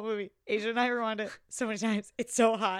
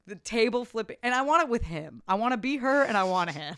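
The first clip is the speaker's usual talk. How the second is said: swooning want; 8 dB louder than usual. Retold or imitated. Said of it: "we both were like".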